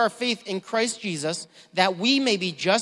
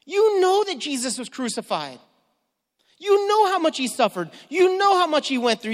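higher, urgent pleading rebuke; exasperated; 6 semitones higher than usual. Retold or imitated. Paul confronting the Galatians, exasperated and higher. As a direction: press them, indignant. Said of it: "He's really upset".

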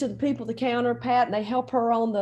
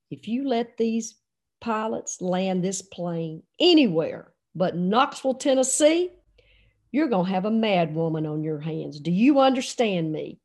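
meaning business; 3 semitones lower than usual. Retold or imitated. Wife in labor warns coach, meaning business. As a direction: lay down the warning word by word. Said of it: "I knew when Pat meant business".

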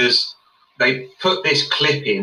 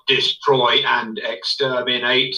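Dalek voice; much slower than usual. Retold or imitated. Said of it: "one of them goes".

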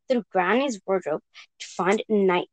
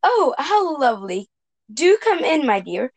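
croaking wolf; 3 semitones higher than usual. Acted.

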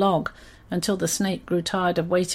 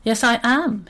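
a touch of indignation; mildly annoyed; 3 semitones higher, 3 dB louder than usual. Acted. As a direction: answer back, slightly annoyed. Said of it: "Horatio was annoyed".

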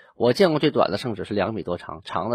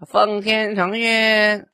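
high, slow drawn-out edict cry; mock the TV eunuch reading the edict; TV drama eunuch voice; 11 semitones higher, 5 dB louder, much slower than usual. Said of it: "这不对 第一，这声音不对".

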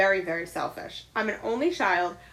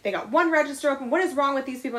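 imitating aggravated shopper; 3 semitones higher, faster than usual. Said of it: "tense and angry and aggravated".

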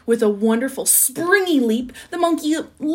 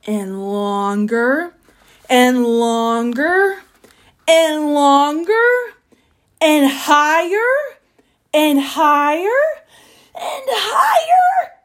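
very slow, climbing steadily in pitch and volume; slow crescendo from usual pitch to very high and loud; building higher; 4 semitones higher, 6 dB louder, much slower than usual. A narrator's reading. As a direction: stretch each phrase, rising to a high squeal. Narrator mimics the neck growing upward.

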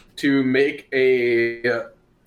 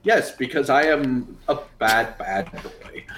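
laughing confession. Acted. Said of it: "Runt would say it like that".

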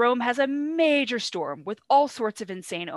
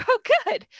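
very high, loud, over-eager; mock relief; 9 dB louder than usual. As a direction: squeal it out in hammed-up relief. Cassius relieved, acted.

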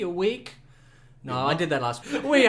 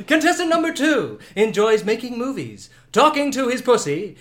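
game show host; 3 semitones higher, 5 dB louder than usual. Acted. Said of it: "I'm your host".

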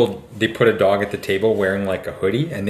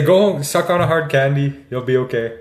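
higher-pitched mock Mennonite accent doctor; 5 semitones higher, 3 dB louder than usual. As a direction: imitate the old family doctor in a Mennonite accent, hammed up. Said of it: "Like a Mennonite accent".

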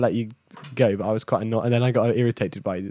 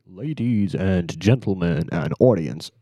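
announcer; 4 semitones lower than usual. Shown as a demonstration. Trying out the show introduction.

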